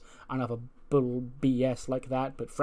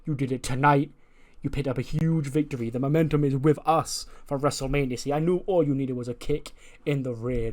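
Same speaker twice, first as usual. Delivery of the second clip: lightly hammed-up pep talk, louder on the opening; fired up; 5 dB louder than usual. Christian praising Dominic backstage after his victory, fired up. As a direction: imitate a manager hyping his wrestler after a win. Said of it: "Christian's all fired up".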